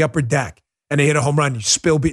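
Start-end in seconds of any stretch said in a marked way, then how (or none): none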